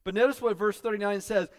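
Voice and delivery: loud, high-pitched preacher's tirade; forceful preaching. Acted.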